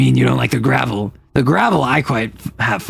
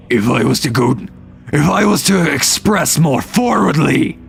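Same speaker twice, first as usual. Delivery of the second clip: projected voice demo. Shown as a demonstration. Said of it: "that, like, hurts my voice".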